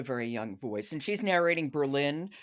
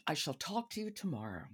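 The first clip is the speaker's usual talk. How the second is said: whisper; 2 semitones higher, 5 dB quieter than usual. Real, not acted. Playful whispered sign-off to guest.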